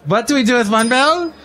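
hammed-up German accent, questions pitched high. Host spoofing a talk-show bell bit in German accent. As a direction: put on a comic German accent, lifting each question. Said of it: "We speak with a German accent".

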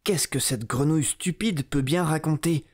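scornful inner thought. Acted. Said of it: "elle se dit en elle-même".

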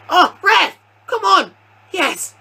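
high-pitched protest; heated appeal. Real, not acted. Player appealing to the ref for a foul, high heated cries. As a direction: cry out at the referee.

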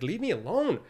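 high-pitched mock protest; put-upon, pleading complaint; exasperated plea. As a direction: whine it upward like a pestered kid. Pleading with God to stop nagging.

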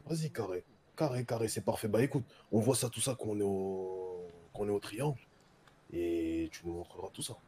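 sensual voice. Pretend. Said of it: "Prends une voix sensuelle".

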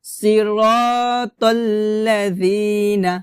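slow, drawn-out tajweed recitation; measured teaching recitation; Quran recitation model. Shown as a demonstration. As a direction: recite with long held vowels. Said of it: "হবে".

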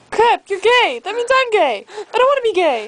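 mock wail. Comic wail of dismay.

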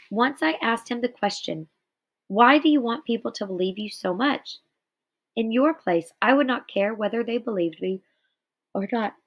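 measured read-aloud narration; story reading. Acted. Teacher reading Night aloud to students, measured narration. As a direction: read the memoir passage to the class with steady care.

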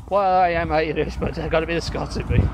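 loud mock Irish sliding into Scottish; lightly hammed Celtic mix of Irish and Scots; Irish-Scottish accent. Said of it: "you've gone Scottish instead of Irish".

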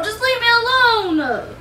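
slow, tearful plea to be left alone. Real, not acted. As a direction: beg him to leave you alone, near tears. Girlfriend upset during couple's argument.

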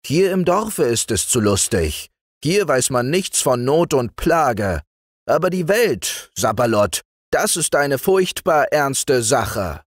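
a hint of a blustering tempter; lightly voiced arguing sorcerer. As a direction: argue it with mock gravity, slowing late. Zacher argues with Frau Martha.

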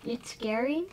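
whispered question. Real, not acted. Older sister whispering back to scared sibling. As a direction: answer her hush in a whisper.

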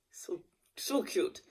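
breathy whisper, slow and doting; whispered gush. Real, not acted. Owner gushing about her horse, slow whisper. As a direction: whisper it like you can't stand the cuteness.

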